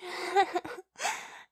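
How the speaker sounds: high giggle. Acted. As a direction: burst into a giggle. Laugh after teasing.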